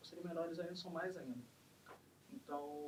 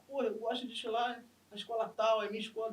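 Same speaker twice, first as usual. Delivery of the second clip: louder, higher, proud fan's boast; voiced pride; 6 semitones higher, 7 dB louder than usual. Resident boasting of the samba school, voiced pride. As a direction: say it like a devoted school member. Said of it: "de vestir a camisa com, com orgulho".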